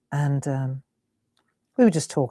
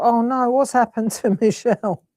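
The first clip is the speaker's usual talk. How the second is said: alarmed; 6 semitones higher than usual. Retold or imitated. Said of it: "I seriously thought".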